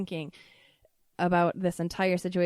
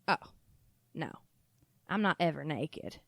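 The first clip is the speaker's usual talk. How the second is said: lightly voiced Southern-accented mom, lower at the end; put-on Southern accent; 5 semitones lower, 3 dB quieter than usual. Mom denies ever being naked, mild Southern accent. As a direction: imitate mom's denial with a hint of Southern. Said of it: "this weird accent that I'm choosing".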